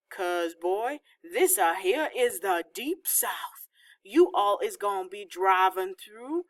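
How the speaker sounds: put-on slow, drawling Southern hillbilly accent, lightly done; dad hamming up a Southern hillbilly drawl. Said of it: "did an imitation of a hillbilly accent".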